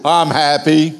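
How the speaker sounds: preacher contrasts a joyful greeting with a dull one; happy answer. Pretend. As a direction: sound truly glad.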